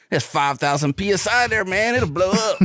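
mock warning yell, pitch climbing; retold holler rising at the end; imitating a yell. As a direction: call out an urgent warning, lightly hammed-up. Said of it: "the guy yells at him".

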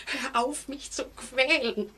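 whimpering plea; pleading cry. Acted. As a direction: beg him to stop. Pleading with the man.

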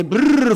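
trilled mock snore; a brief rolled "brrr" imitating a snorer; imitated snore. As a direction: make a quick snoring noise. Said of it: "Ακούμε και κανένα ροχαλιτό".

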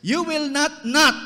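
high, loud, hammering both nots; emphatic double no. Acted. Peter refusing Jesus, loud hammered double negative. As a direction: slam the second not down hard. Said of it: "He says".

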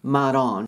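"mud on" joined as one word; linked D. Shown as a demonstration. Teacher showing consonant linking, words joined. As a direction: soften the D of "mud" into "on". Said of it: "くっつくことがある".

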